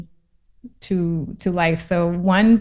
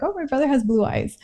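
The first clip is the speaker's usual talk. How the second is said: put-on childlike wonder; 5 semitones higher, 4 dB quieter than usual. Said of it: "I just remember saying".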